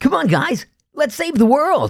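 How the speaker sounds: very high, goofy voice-over character voice. Voice actor demonstrating how they talked all day in the studio, funny voice-acting character voice. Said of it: "I used to talk like this all day in a recording studio".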